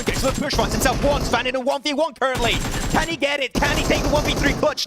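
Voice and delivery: fast esports casting, rising on big plays; live play-by-play. Acted. Caster calling Svan's clutch for stream viewers, hyped play-by-play. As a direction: call the fight like a live caster. Casts live battle royale match.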